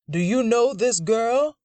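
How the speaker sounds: high, loud accusing demand; angry demand. Acted. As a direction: bark the question at him. Grandfather interrogating Grant.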